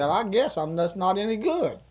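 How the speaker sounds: chuckling through the self-deprecating joke; laughing. Retold or imitated. Old man joking back to the nurse, laughing.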